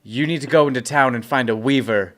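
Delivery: firm, projected instruction called from above; yelling down. Acted. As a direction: call the order down to someone below. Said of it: "I'm gonna yell down to him".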